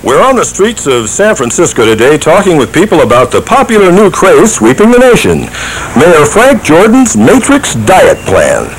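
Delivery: news reporter. Acted. Street reporter parody.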